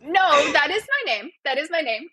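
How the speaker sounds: firm "that is my name" with no questioning rise; statement, not question. Shown as a demonstration. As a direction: correct the upspeak, landing "name" as a statement. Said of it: "not a question".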